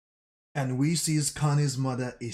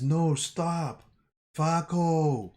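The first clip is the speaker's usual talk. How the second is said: mild pleading shout; 3 semitones higher, much slower than usual. Retold or imitated. Gabi begging Connie not to drag Falco up, a rising shout. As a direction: cry out to stop him.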